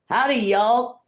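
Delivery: high, twangy Southern Howdy; cheerful Southern accent greeting. Shown as a demonstration. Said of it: "should I say it in a, uh, a Southern accent?".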